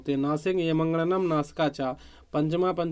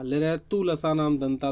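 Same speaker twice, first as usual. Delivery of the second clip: recited sutra. Shown as a demonstration. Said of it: "दांत से क्या उच्चारित होता है".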